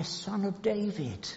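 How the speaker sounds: gently acted cry with falling endings; imitated crowd's cry. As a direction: plead for mercy in a softened, lifted voice. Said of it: "and they cry".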